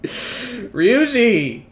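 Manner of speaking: laughing shout. Real, not acted. Laughing at friend's dumb search.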